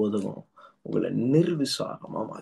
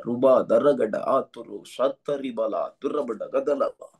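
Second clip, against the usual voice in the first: speaking in tongues; 3 semitones lower, slower than usual. Acted. Speaking in tongues during prayer.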